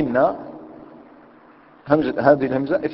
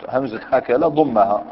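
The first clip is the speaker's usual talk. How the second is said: slow dictation; 3 dB louder than usual. Shown as a demonstration. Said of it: "ونضمها في النطق".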